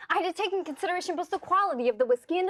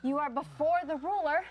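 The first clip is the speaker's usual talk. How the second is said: mock solemn command. Mock solemn worship of dollar.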